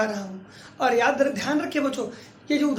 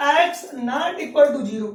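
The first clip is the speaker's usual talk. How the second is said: each word spaced out slowly; slow dictation; much slower than usual. Shown as a demonstration. Teacher dictating the condition slowly to students. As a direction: read the condition out slowly for the class to copy.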